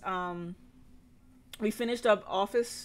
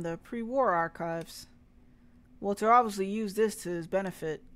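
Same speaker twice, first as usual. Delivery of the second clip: put-on Southern accent. Sheriff discussing Walter's secret past, mild Southern accent. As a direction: explain it like a small-town Southern sheriff. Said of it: "when I put in that accent".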